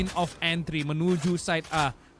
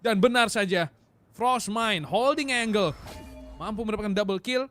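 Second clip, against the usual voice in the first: excited; 5 semitones higher than usual. Real, not acted. Caster confirms big play.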